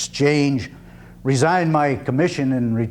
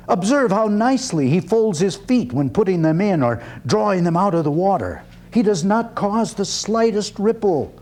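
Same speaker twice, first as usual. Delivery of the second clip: voiced father; 6 semitones higher than usual. Father in parable speaks.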